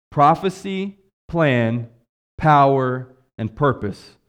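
each word said slowly apart; slow down and space each word; slow, spaced out. Shown as a demonstration. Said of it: "Let me say it slowly".

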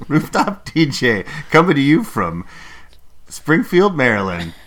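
hyped DJ announcer; radio DJ voice. Pretend. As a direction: sell it like a radio DJ. DJ bit, louder.

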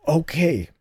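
harsh croak. Acted. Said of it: "his voice a harsh croak".

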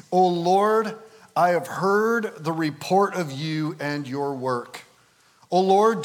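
slow, solemn Bible reading; scripture reading. Acted. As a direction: proclaim it phrase by phrase, with long pauses. Reads scripture aloud.

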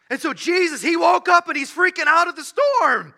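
loud, high, hammed-up alarm; mock freak-out. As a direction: shout it as if panicking along. Mock panicked telling, then corrected.

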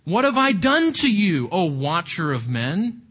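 mild dramatized outburst at God; erupting in protest. Acted. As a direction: voice Job's outburst, pitch jumping on the question. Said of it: "he erupts again".

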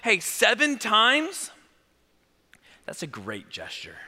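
slow, gentle questioning; Jesus speaking gently. Acted. Jesus gently answering Peter's question, slow and kind. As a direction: savor each word as Jesus, kindly. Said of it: "And so Jesus is like".

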